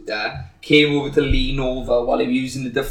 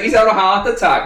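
urgent shout; 8 semitones higher, 6 dB louder than usual. Retold or imitated. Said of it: "I was like".

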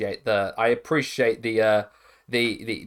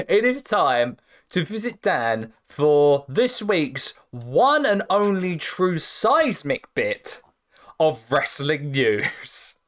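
segment announcer; 3 semitones higher, slower than usual. Acted.

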